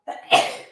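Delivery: a sudden real sneeze; sneezing. Real, not acted. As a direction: sneeze once, short and sharp. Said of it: "Sorry, I'm gonna sneeze".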